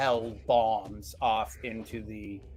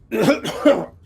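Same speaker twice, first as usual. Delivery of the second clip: gruff cough; 9 semitones higher, 10 dB louder than usual. A narrator's reading. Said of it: "a gruff voice".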